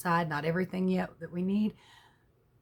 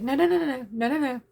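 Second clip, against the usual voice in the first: store worker rushing to reassure, high and loud; hasty denial; 7 semitones higher, 6 dB louder than usual. Retold or imitated. Store worker to wary customer on the phone, hasty denial. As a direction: cut in with a rapid string of noes.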